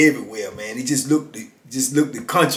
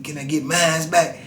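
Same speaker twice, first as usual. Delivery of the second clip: pleading friend; 3 semitones lower, 8 dB quieter than usual. Retold or imitated. Friend begging for his money back.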